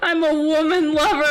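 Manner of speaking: emphatic declaration. Shown as a demonstration. Joking to friends about slurs, an emphatic proud declaration. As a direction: proudly announce it, as a big joke. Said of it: "said again louder".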